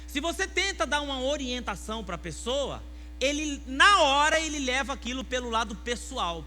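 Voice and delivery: loud, high, driving sermon; fiery preaching. Real, not acted. Pastor preaching loudly to his church about pride. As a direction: preach it hard to the congregation.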